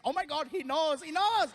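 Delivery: thrilled fans yelling; excited crowd scream. Retold or imitated. Indian crowd thrilled he knows the local drink, excited cry. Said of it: "They were, like, screaming".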